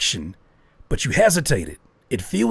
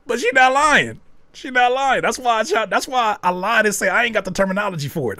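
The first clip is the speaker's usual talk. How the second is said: laughing; 7 semitones higher, 4 dB louder, faster than usual. Real, not acted. Laughing reaction to chat.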